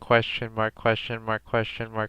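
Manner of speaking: slow, even robot announcer; robotic voice. Pretend. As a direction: read it like a computer. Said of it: "in a robotic voice".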